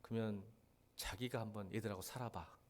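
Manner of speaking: soft, low mock of the wife's comeback; wife's quiet retort. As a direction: hand it back to him quietly, deadpan. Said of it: "나한테 했던 말이".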